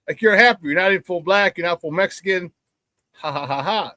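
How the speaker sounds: mildly imitated locker-room taunt; mock them lightly, ending on a put-on ha-ha; teasing. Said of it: "they started teasing me".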